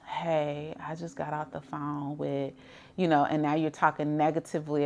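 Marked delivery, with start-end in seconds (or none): 0.1-2.5 acted deflated phone call, much softer; low energy. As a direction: deliver bad news with the energy drained out. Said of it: "if your energy level is like".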